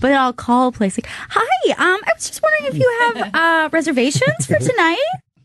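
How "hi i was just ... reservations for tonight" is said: squeaky, very high, polite voice. Calling a place to ask about reservations, in a high-pitched phone voice. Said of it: "why am I speaking so high to this person?".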